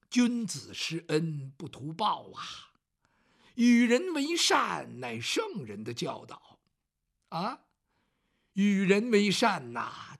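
lightly voiced scholar gently preaching, then waving him off; lecturing scholar. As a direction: intone it slowly like a young scholar reciting virtue. Bao Gong lectures on virtue.

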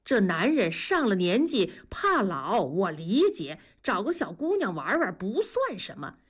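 worked-up. Acted. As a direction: press your buddy hard, voice climbing. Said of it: "狠拍大腿说".

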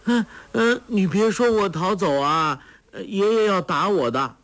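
put-on high, childlike scared pleading; frightened. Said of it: "傻姑惊道".

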